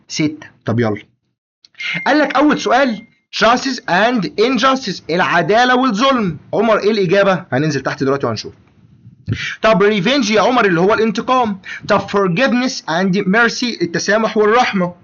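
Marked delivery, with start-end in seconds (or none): 3.4-5.0 stretched out syllable by syllable; very slow dictation. Shown as a demonstration. Teacher reading the exam theme slowly to Omar. 12.0-13.8 very slow, word by word; slow dictation. Shown as a demonstration. Teacher reading the English phrase slowly to Omar.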